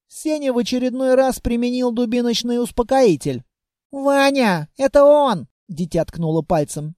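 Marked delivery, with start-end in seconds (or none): 3.9-5.5 high, eager accusing cry; high child tattling to her protector; excited child. Acted.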